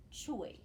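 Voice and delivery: "choi" with an oi vowel; "choi" on its own, falling at the end; sounded-out syllable. Shown as a demonstration. Teacher reads the vowel team syllable, "choi" said separately. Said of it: "that says oi".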